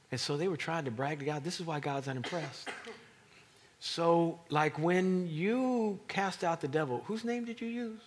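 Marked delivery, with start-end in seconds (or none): 3.8-8.0 louder, higher pointed questioning; challenging question. Acted. God questioning the miracle workers, loudly challenging. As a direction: corner them with the question.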